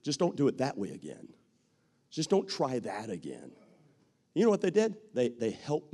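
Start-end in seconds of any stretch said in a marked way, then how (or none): 0.0-3.5 higher, gently encouraging; encouraging mentor. Retold or imitated. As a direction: lift up a young preacher. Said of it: "came along and said".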